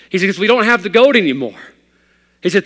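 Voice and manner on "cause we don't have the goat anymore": loud, much higher, bursting with joy; excited. Acted. Father of nine to his preacher, overjoyed. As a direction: gush it out, delighted. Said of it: "so excited, so happy".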